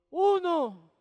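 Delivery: loud, punched-out count; punchline. Real, not acted. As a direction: land the number like a punchline.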